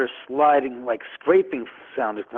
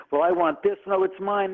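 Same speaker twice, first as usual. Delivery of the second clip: higher-pitched squabbling heirs; mock bickering; 7 semitones higher than usual. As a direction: imitate relatives arguing over belongings. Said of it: "the arguing and bickering".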